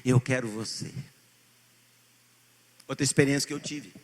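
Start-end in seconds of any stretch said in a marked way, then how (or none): 0.0-0.9 loud pleading prayer, calling to God; crying out in prayer. Acted. A believer crying out to God for his presence, loud pleading. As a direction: cry out to the Lord with longing. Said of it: "tudo clama por esse Deus vivo".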